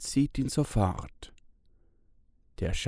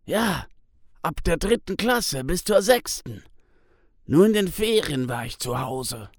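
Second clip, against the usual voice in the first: higher, pained storytelling man; Tis, sad memories; 6 semitones higher, 4 dB louder than usual. A narrator's reading. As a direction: relive a hard childhood. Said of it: "Tis nickt". (Tis erzählt bedrückt von Schlägen in der Schule)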